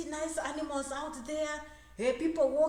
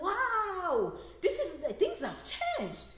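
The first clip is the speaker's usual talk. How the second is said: put-on American accent; 7 semitones higher, much slower than usual. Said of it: "you're talking in American accent".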